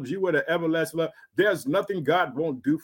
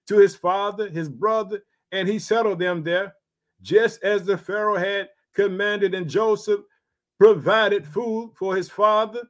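raised, measured Bible reading voice; scripture reading. Acted. Preacher reading Genesis to his congregation, raised and measured. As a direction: read the verses out to the congregation.

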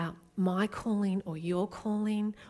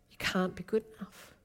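hushed whisper; 6 dB quieter than usual. Real, not acted. Preacher to congregation, a hushed whisper. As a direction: drop to a whisper for the climax.

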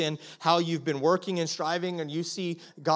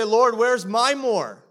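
slow plea; 5 semitones higher, 7 dB louder, much slower than usual. Retold or imitated. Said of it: "And you say".

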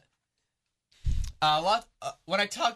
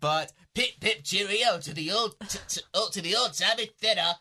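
hammed-up mock British accent; badly faked Brit; terrible British accent; 2 semitones higher than usual. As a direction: put on a bad, jaunty British accent. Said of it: "That was a terrible accent".

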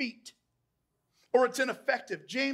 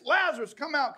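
firm, raised call to Lazarus; loud call; 3 semitones higher, 4 dB louder than usual. Acted. Preacher voicing Jesus at the tomb, loud call. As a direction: call out as if summoning someone. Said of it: "called out in a loud voice".

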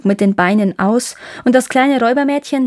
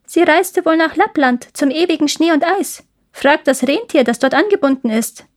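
lightly voiced pigeon, higher pitch; a hint of a small bird, raised voice; wood pigeons answering; 7 semitones higher than usual. (leicht angedeutete, höhere Taubenstimme)

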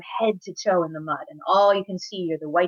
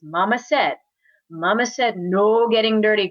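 higher, emphatic big-brother telling-off; bossy scolding; 3 semitones higher, 5 dB louder than usual. Acted. Big brother reminding little brother of mother's rule, scolding.

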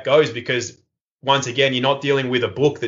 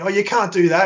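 retold yell; 8 semitones higher than usual. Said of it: "everyone's yelling at me".

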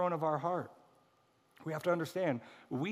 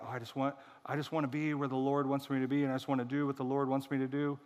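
mock pious; faster than usual. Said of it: "put a little spirituality on it".

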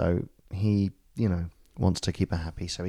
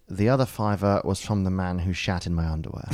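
punchline through laughter; laughing punchline. Retold or imitated. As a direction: crack up on the last line. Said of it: "And he goes".

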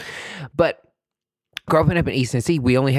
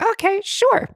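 embarrassed okay; slower than usual. Retold or imitated. Embarrassed reply to nurse.

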